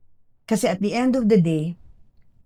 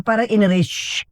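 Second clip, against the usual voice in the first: lively "shh" swipe sound; imitated whoosh of erasing; 2 semitones higher, 3 dB louder than usual. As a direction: sweep it away with a sharp shh. Mimes the typhoon erasing the beach.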